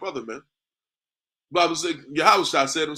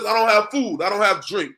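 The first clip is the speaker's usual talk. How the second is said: upset man's plea; 5 semitones higher, 5 dB louder than usual. Retold or imitated. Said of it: "He says".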